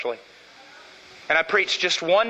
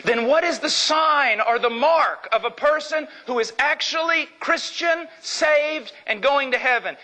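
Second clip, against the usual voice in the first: urgent rising question; 7 semitones higher than usual. Real, not acted.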